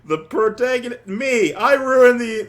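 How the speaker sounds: high, loud, stretched with laughs; mock-despair over ruining them; real half-laughing anguish; laughing lament. Real, not acted. Laughing lament over ruined characters.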